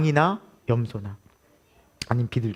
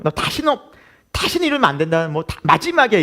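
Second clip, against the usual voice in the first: grumbling dad; 4 semitones higher than usual. Retold or imitated. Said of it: "투덜투덜 대죠".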